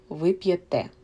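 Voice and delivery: п'єте with the stress on the final те; stress on the last syllable. Shown as a demonstration. Teacher demonstrating the stress for learners, final syllable stressed. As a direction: land the beat on те in п'єте. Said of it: "the stress is on the last syllable".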